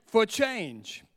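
drawn-out call to everyone online; slow call to viewers. Shown as a demonstration. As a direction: stretch each word of build expectation for change. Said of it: "Everybody at home, online".

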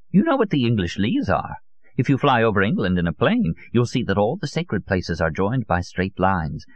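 lightly voiced, insistent old man; obsessive old conspiracist. Old Solon argues to his visitor about the Grail, lightly voiced zealot. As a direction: press the point with rhetorical questions.

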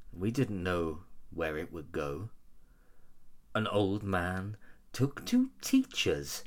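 slow, solemn poem reading; poem recital. Acted. Reads the lyrics as a poem.

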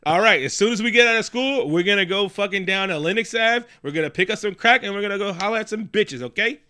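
put-on loud, high New York accent; heavy New York accent. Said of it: "heavy with the New York accent".

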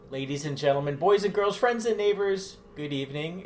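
showman's rising welcome, building each phrase; grand entrance announcement. Acted. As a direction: greet the crowd like a ringmaster. Cohost's showy entrance greeting.

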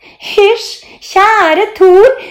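very high, cooing teacher-play voice; silly put-on voice. A narrator's reading. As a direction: put on a sugary, squeaky pretend voice. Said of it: "Mia lager rar stemme". (rar, lys tilgjort stemme)

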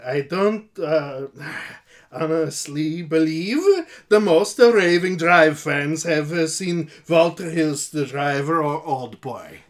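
a light, halting mock Dutch accent. Co-host voicing a Dutch listener in a faint put-on accent. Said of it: "he is from Holland".

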